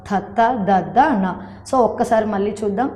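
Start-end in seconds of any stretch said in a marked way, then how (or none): 0.1-1.4 థత్త, దద్ద, న with tongue touching the teeth; teacher's demonstration of dental థత్త, దద్ద, న; dental sounds. Shown as a demonstration. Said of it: "వాటిని తాకుతూ పలికే అక్షరాలను".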